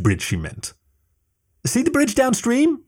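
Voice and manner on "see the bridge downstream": high, slow yell over rushing water. A narrator's reading. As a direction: shout it downstream to get his attention. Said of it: "she yelled".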